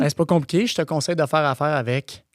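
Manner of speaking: stuck, looping like a broken machine; deadpan glitching ad-read robot. Pretend. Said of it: "La machine bug".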